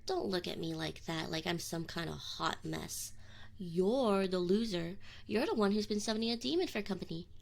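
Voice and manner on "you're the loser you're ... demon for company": louder, pushing back hard; defensive retort. Acted. Demon snapping back at the teasing summoner, louder. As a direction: hit back to cover the hurt.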